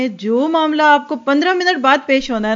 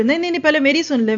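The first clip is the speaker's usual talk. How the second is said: quick, higher-pitched mock interruption; interrupting; 4 semitones higher, faster than usual. Mother cutting into her child's complaint, mock interrupting. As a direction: cut in fast as an acted impatient mother. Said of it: "بیچ میں شروع".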